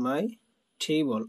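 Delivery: slow table with aspirated T. Shown as a demonstration. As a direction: puff of air on the T in table. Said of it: "টেবিলে হবে কি".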